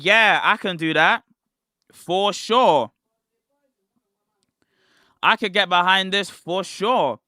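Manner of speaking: emphatic, mildly excited self-quote; retold excitement. Reliving his excitement about the livestream, keenly emphatic. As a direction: back it with keen conviction. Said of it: "I was very excited".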